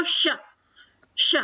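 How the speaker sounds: श said with the tongue curled back to the palate; retroflex sh demo. Shown as a demonstration. Teacher shows pupils the retroflex श. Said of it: "इस तरह से बोलेंगे".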